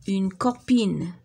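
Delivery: slow clear repeat of copine. Shown as a demonstration. Teacher repeating the word to pupils, slowly.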